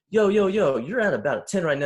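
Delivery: high, loud "yo, yo, yo", then easing down; imitated cop intervening. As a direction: cut in loudly to rein someone in. Cop reins in escalating speaker.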